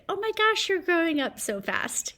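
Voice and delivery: high-pitched gushing grown-up voice; gushing adult. Acted. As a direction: gush at a child like an amazed relative. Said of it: "adults would always say".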